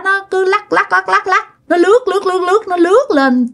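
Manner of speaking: high-pitched, chanted repetition of the motion words; kể dồn dập. Retold or imitated. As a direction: mimic the wobble and glide in a high, repetitive rhythm. Acts out the shadow's wobbling glide. (giọng cao, lặp dồn từng nhịp)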